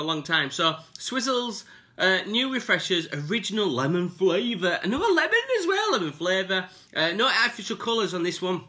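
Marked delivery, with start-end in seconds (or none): 4.8-5.9 laughing. Real, not acted. Laughs at another lemon.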